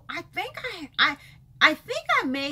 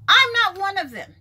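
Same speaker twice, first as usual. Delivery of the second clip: I'm stressed again, still loud but settling; firm refusal repeated; 7 semitones higher, 7 dB louder than usual. Real, not acted. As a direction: repeat it just as firmly.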